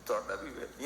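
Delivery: put-on a heartbroken old man answering quietly; hurt father's reply. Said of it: "اور آگے باپ کہہ رہا تھا".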